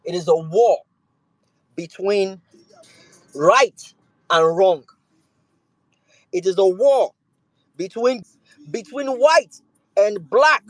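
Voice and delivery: building speech. Real, not acted. Rising protest speech litany.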